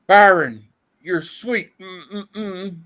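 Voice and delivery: high, breathy swooning lady; swooning woman. Acted. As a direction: swoon over him. Reading swooning woman's lines.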